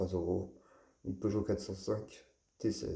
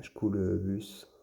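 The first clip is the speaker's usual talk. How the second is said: School Bus said slowly in an English accent, Schkool with a hard sk. Real, not acted. Collector naming his yellow toy bus, said in an English accent. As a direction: slip into an English accent for the toy's name. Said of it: "pour mon accent anglais".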